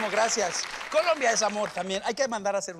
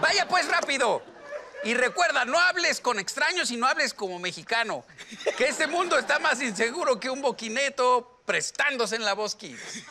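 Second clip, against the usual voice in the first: witch voice; 2 semitones higher than usual. Acted. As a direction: scold like a witchy mom. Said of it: "tiene voz de bruja la mamá".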